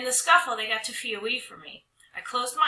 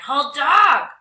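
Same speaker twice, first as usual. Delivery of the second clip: loud, high troll demand; 7 semitones higher, 14 dB louder than usual. Acted. Trolls demand the girl hold the dog, loud. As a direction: bark it like a greedy troll.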